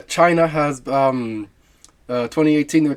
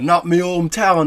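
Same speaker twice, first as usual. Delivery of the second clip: higher, louder mock Jamaican accent; bad Jamaican accent; 4 semitones higher, 6 dB louder than usual. Shown as a demonstration. Half-Jamaican host jokes about his hometown, bad Jamaican accent. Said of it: "my bad accent".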